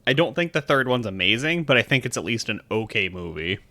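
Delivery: talking while crunching snacks; words around a mouthful of seeds; eating snacks. Real, not acted. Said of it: "Sorry, I'm eating".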